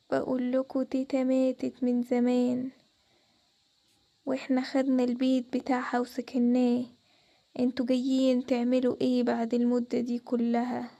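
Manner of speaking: low, slow, eerie ghostly warning. Acted. Unseen ghost calling the girls at night, low and slow. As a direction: draw every word out like a spirit in the dark.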